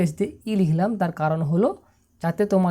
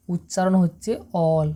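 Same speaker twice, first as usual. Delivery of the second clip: slow clear reading. Shown as a demonstration. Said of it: "তাহলে আমরা কি বলবো?".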